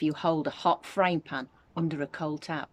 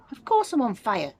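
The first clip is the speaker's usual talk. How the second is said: louder, higher Grandma yell; 6 semitones higher, 5 dB louder than usual. A narrator's reading. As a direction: bellow it back at George. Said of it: "she yelled".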